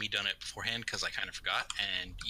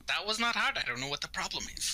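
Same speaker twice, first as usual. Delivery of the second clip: incredulous; 9 semitones higher than usual. Real, not acted. Outrage at the failed roll.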